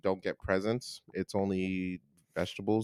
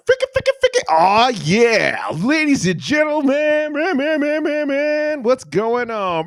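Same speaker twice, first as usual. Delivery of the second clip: loud, high hype-man shout; hammed-up DJ intro with stuttered repeats; radio DJ voice; 10 dB louder than usual. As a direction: blast it out like a club DJ. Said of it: "my radio D J voice".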